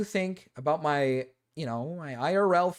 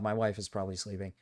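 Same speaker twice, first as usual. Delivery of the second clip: much lower and softer, dropped down; hushed; 10 semitones lower, 6 dB quieter, faster than usual. Real, not acted. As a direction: pull the voice right down so no one wakes. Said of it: "I shouldn't talk this loud".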